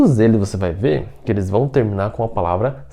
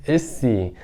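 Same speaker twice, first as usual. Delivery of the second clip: ordinary delivery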